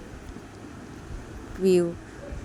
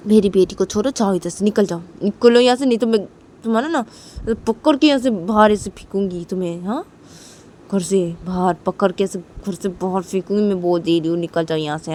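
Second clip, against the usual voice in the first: angry mother; 2 semitones lower, 4 dB louder than usual. Acted. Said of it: "P बोलती कि".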